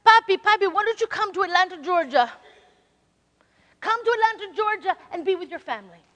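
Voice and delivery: lightly voiced daughter begging; pleading daughter. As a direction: coax Papi to come to Atlanta. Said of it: "my daughter says".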